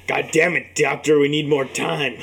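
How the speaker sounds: mock desperate pet owner. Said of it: "the guy from The Simpsons".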